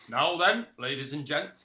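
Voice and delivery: calling to order. Acted. Club boss calls the meeting.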